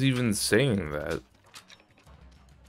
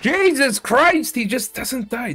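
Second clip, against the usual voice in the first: exasperated; 14 semitones higher, 4 dB louder than usual. Real, not acted. Gamer shrieks at an enemy who just won't die, exasperated.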